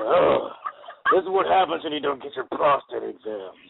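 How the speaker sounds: strained gravelly parody voice; mock Batman voice. Friend jokes why Batman talks like that, strained mock growl. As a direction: growl it like a hero in a tight suit.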